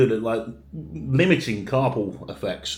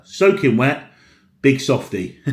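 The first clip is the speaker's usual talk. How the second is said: teasing laugh; 7 dB louder, slower than usual. Real, not acted. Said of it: "oh no".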